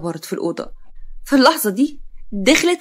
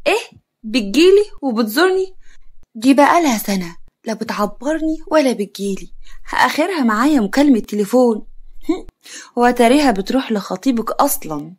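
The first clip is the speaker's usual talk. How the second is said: sarcastic; 2 semitones higher than usual. Acted. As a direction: scoff at her with a little laugh. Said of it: "خالتها بسخرية".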